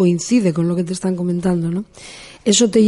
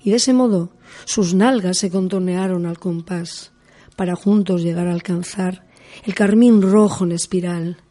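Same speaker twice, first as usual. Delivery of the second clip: hammy stage actor reading; declaiming poem. Shown as a demonstration. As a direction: recite it like a stage poet. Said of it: "lo más apropiado sería declamar".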